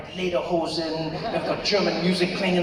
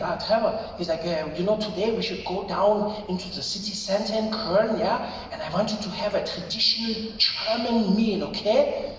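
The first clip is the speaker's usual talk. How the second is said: put-on German-accented English; Rolf; 2 semitones higher than usual. German friend inviting visitor to a meal, German accent.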